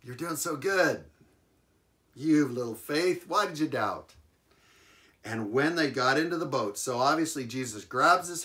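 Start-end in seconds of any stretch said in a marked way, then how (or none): 0.0-4.1 playful jab. Acted. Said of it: "gave him a little jab".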